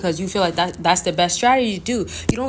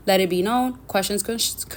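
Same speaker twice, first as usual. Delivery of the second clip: rushed, tripping over "Questions, con-"; talking too fast. Real, not acted. Vlogger rushing through her sign-off, stumbling from haste. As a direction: hurry it until the words tangle. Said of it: "I'm talking too fast".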